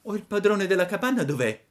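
put-on a boy calling out into an empty hut; surprised puppet. A narrator's reading. Pinocchio asks inside.

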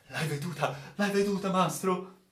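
obsessed, pleading query; urgent questioning. Acted. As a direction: press eagerly for confirmation. Officer anxiously questions shocked sailor.

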